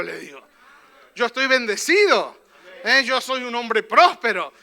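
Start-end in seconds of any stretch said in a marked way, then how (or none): 1.1-4.5 bold declaration. Shown as a demonstration. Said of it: "lo que acabamos de decir".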